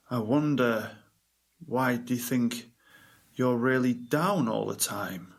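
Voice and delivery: slowed, matching the client's deflated pace; mirroring slow speech. Retold or imitated. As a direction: stretch "really down all the time" out slowly. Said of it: "Why are you talking so slowly?".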